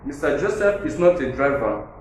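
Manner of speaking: weight on not; Mister Joseph is "not" a driver, with "not" stressed; emphatic stress. Shown as a demonstration. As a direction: lean on not, flat and firm. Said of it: "a point of emphasis is".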